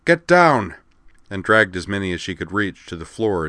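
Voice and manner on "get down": much higher, loud shouted warning; Dorothy warns the group of mortar fire; cried warning. Acted. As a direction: yell to get everyone down fast. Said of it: "then cried".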